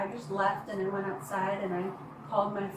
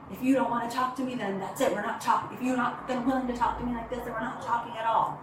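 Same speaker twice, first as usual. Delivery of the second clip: raised, insistent voice, somewhat louder; mock him laying down an ultimatum; retold yelling; 3 semitones higher, 5 dB louder than usual. Boyfriend yelling that the talk is over, louder. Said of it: "started yelling at me".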